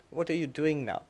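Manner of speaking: put-on gentle old guru. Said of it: "he very gently said".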